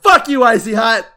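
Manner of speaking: loud, high mock-furious yell; Bakugo. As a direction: hurl the insult like a raging hothead. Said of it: "he's just yelling at him".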